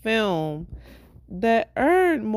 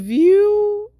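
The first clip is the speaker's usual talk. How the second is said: loud cut-in; 14 semitones higher, 9 dB louder than usual. Real, not acted. Loud restart over sister.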